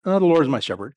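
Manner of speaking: casual, unemphatic take with no weight on "my"; offhand, casual. Shown as a demonstration. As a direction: toss "the Lord is my shepherd" off as if it hardly matters. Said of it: "It, it's not just".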